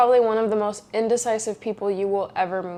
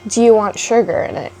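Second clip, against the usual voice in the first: imitated British barista, louder; quick British accent; 5 dB louder than usual. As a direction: rattle it off in a mock British accent. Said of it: "He said it so fast and obviously, like, in a British accent".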